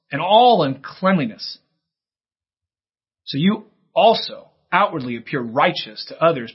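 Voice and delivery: Jesus rebuking the Pharisees, loud and forceful; fired up. Acted. Jesus denouncing scribes and Pharisees, fired-up loud rebuke. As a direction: thunder the woes at the hypocrites. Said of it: "he's fired up".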